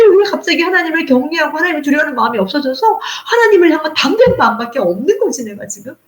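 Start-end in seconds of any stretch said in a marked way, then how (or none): none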